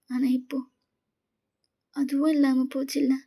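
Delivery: tearful confession. Acted. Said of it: "நீங்க உங்க நீஸை ஹக் பண்ண மாதிரி அப்படி அழுறீங்க".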